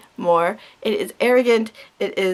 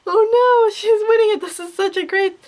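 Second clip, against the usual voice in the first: mocking a rapper's tears; 11 semitones higher than usual. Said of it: "and you're gonna, like".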